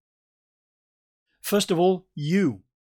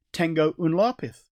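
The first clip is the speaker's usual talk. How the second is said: Spanish with a North Staffordshire accent; English-accented Spanish. Shown as a demonstration. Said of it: "Sorry about my accent".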